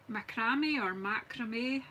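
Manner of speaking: "macrame" first as ma-CRAY-mee, then as MAK-ra-may, slowly; two pronunciations. Shown as a demonstration. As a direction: weigh up "macrame" both ways, slowly. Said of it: "do you say".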